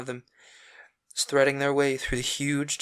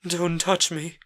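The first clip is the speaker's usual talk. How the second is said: curt, cold refusal; Dorian, cold rebuff; 5 semitones higher, slower than usual. A narrator's reading. Dorian thrusting Sybil back, cold and curt. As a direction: push her away with your voice.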